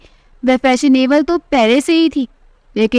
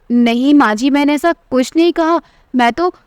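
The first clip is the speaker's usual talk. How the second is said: nervous and fast, a touch higher; hurriedly justifying herself to her mother-in-law, flustered; flustered defence; 3 semitones higher than usual. Acted. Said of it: "Gauri घबरा कर अपनी सफाई देने लगी".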